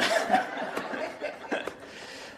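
quiet breathy chuckle; airy laugh. Real, not acted. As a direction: let a silent laugh out. Laughs again.

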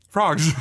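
sharp gasp before a high squeaky French; gasp then French. Pretend. Goofing on the French joke, gasp and squeak. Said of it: "frog in my throat".

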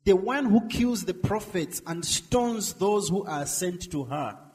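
loud, slow lament; crying out. Acted. Jesus crying out to Jerusalem, loud and slow. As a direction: call out to the city in grief. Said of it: "Jesus is crying out".

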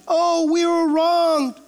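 mocking, slow whine of self-pity; whiny complaint. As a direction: whimper it like a sore loser, slowly. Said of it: "you know, they complain".

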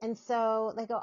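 ordinary talk, nothing marked

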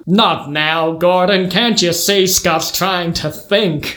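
American father brushing off his son, drawn out; slow, exasperated American patriarch; American accent. Acted. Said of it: "gonna have to do an accent".

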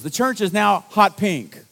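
imitating an appalled church elder; retold alarm. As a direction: break the news in mock horror, loud. Retold elder breaking alarming news.

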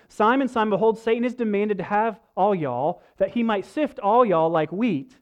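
put-on light Southern accent, playful; rednecky Southern reading. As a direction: read it like a down-home Southern preacher. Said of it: "So, so one more time".

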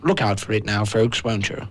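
lightly put-on posh BBC voice; plummy announcer, half joking. Shown as a demonstration. The speaker announcing Top Gear in a mock posh voice. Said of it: "in his posh voice".

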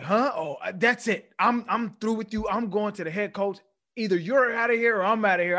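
high, loud hammed-up tantrum; mock outburst. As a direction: imitate a coach blowing up and storming off. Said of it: "And he's like".

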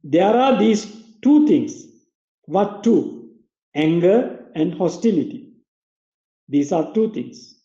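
slow, careful read-aloud for repeating; slow school dictation. Shown as a demonstration. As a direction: read each phrase out for the class to follow. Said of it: "I will read it again".

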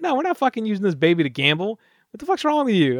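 mock outraged Popeye. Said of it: "And then Popeye's like".

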